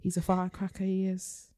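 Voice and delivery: put-on northern English accent. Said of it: "we have to do that accent way more".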